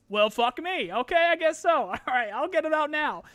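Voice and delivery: mock-flustered, pitch jumping up; exasperated giving in. Streamer retelling a rushed video deadline, mock-exasperated. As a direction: give in with exaggerated exasperation.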